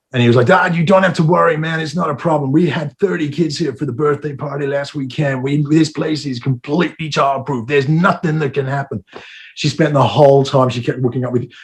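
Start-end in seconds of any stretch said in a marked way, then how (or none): 0.4-9.0 put-on Boston accent, casual manner. Retelling what a man said to the speaker, in a put-on boston accent. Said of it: "He had that kind of a Boston accent".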